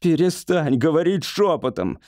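high, irritated cry; shouting. A narrator's reading. Patient scolds whispering wife, irritated cry. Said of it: "закричал Бедекер".

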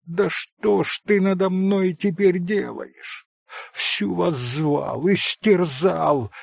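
a hint of a proud, teasing woman; Grushenka. A narrator's reading. Grushenka pleading.

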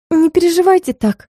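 lightly voiced assistant babbling sympathy; sympathetic babble. A narrator's reading. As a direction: soothe her like a kind helper. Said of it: "сочувственно пролепетала помощница".

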